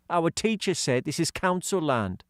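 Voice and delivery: hint of a kid's voice; lightly voiced schoolboy George; lightly voiced boy.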